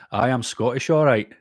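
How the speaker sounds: jokey, badly faked Scottish accent. Streamer jokes to a viewer who thought him Scottish, bad Scottish accent. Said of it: "Terrible accent, impression".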